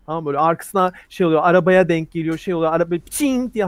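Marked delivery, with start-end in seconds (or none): 3.1-3.5 ringing metallic "ching" sound effect; bullet ping imitation. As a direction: imitate a bullet striking a car. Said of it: "arabadan ses geliyor". (kurşun sesi taklidi)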